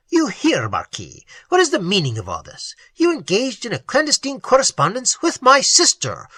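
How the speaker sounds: a hint of a jealous brother; suspicious young nobleman. Lorenzo's suspicious questions.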